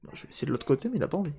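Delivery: whispered to himself; whispering. Real, not acted. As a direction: breathe it under your breath. Whispers while working.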